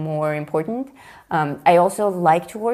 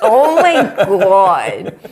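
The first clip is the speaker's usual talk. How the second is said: laughing; 3 semitones higher, 10 dB louder, much slower than usual. Real, not acted. Laughing exasperation at tint joke.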